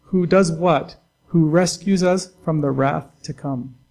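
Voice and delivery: loud, slowed answer; emphatic preaching. Acted. Pastor answers his own question, loud and slow. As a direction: hammer home who rescues us.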